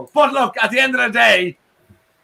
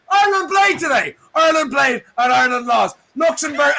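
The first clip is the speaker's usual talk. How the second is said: mock outrage; 3 semitones higher than usual. Real, not acted. Mock despair over Ireland's loss.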